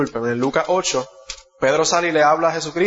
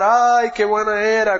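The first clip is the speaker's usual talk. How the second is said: mock mourner's wail; 5 semitones higher, slower than usual. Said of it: "empezaban a llorar y a gritar".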